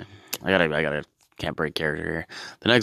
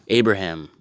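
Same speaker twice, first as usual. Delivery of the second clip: a hint of a booming God voice, a bit louder; bad God impression; 2 semitones higher, 5 dB louder than usual. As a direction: call out like a lame God. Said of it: "worst impression of God ever".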